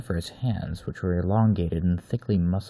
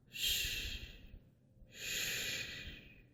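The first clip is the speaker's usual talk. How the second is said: hushing shh; 18 dB quieter than usual. Acted. Soothing the moaning captive.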